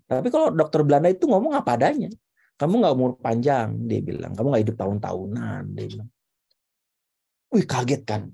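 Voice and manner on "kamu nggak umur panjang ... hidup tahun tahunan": lower, matter-of-fact retold verdict; serious doctor. Retelling a doctor's blunt prognosis to listeners, mock serious. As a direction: imitate a doctor stating it gravely. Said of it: "Ini dokter ngomongnya serius amat ya".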